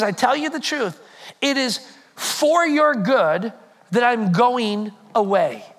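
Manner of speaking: slow and weighty, word by word; slowed-down scripture reading; slow, deliberate reading. Shown as a demonstration. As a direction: lean into every word of the verse. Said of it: "He says".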